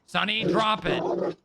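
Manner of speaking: loud, firm scolding of the dog; stern dog command. Real, not acted. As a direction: bark the order at the dog.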